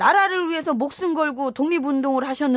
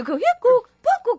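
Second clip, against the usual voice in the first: higher-pitched spoken sound effects; imitated sound effect; 11 semitones higher, faster than usual. Shown as a demonstration. Explaining that he left the closet, imitating the sounds. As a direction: act out the noises with your voice. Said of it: "그 소리".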